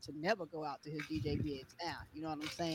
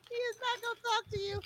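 laughing high. Real, not acted. Wife laughing at DJ.

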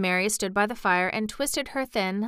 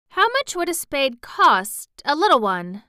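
eager; 7 semitones higher, 5 dB louder than usual. A narrator's reading.

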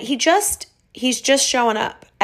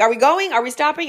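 confused questions; 7 semitones higher than usual. Retold or imitated. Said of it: "people are like".

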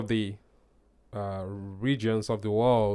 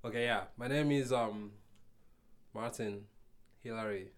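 soft sexy voice; 2 semitones lower, 9 dB quieter than usual. Real, not acted. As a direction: murmur it softly like a seduction. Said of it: "You're still speaking in your sexy voice".

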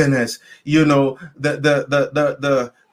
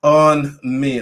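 shouted plea. Retold or imitated. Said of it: "the more he shouted and screamed".

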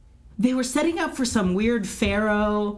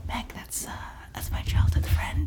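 breathy, hushed whisper; mock whisper; 5 dB quieter than usual. Heroine speaking to her friend Meg, in a mock whisper. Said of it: "it's like".

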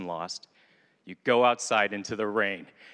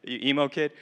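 high, louder, laughing disbelief; laughing mock scold; 4 semitones higher, 5 dB louder than usual. Daniel mocking his teen self in the rain, laughing scold. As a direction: tease the emo kid through laughter. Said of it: "I'm like".

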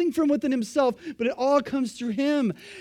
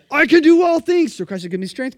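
loud mock boast; 4 semitones higher, 8 dB louder than usual. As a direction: belt the verse out loud, proud of yourself. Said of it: "It's like".

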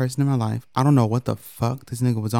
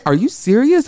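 mock surprise; 10 semitones higher, 4 dB louder than usual. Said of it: "And they were like".

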